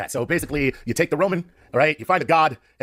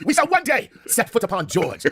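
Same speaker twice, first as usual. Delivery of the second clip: high, slow pompous vow through laughter; mock-grand proclamation; 8 semitones higher, slower than usual. Comic vowing to reach planet George, mock-grand proclamation. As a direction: proclaim it like a hammed-up space-age pledge.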